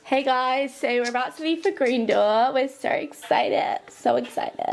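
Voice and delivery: put-on playful American vlogger accent. Greeting viewers before the club night out, put-on American accent. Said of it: "I don't know why I'm doing an American accent".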